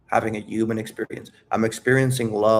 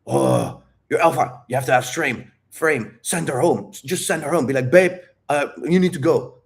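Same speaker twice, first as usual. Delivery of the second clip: lightly voiced alpha-male parody, punched louder in bursts; mock alpha male; 3 semitones higher, 3 dB louder than usual. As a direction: act out an alpha ordering her home. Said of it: "what does an alpha say?".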